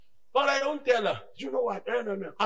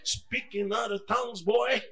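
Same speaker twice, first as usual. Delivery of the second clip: soft, calm voice of God; soft soothing divine voice; 3 dB quieter than usual. Retold or imitated. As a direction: hush him gently. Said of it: "I feel him, you know, like".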